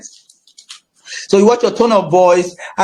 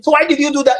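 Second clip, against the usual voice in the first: mock accusing counselor; 5 semitones higher, much faster than usual. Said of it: "Or you're talking to the person".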